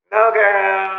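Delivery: put-on loud, sassy "No, girl"; sassy refusal. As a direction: shut it down with attitude. Mocking refusal of renewal.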